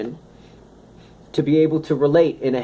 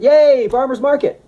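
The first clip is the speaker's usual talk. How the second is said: high, loud, gleeful squeal; mock cheer; 12 semitones higher, 6 dB louder than usual. Speaker mocking their own farmer's market delight, squealed cheer. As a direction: cheer it like a kid getting a treat.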